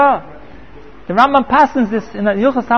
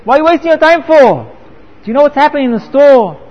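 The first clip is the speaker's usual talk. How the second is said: retold angry shout; 3 semitones higher than usual. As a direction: berate him as the irate wife. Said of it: "And she shouts to him".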